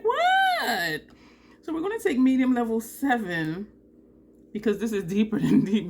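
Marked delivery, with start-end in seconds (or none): 0.0-1.0 high, loud, drawn-out "what"; comic, indignant high-pitched yelp; mock disbelief. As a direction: squeal it in exaggerated disbelief. Retelling her reaction to truck advice.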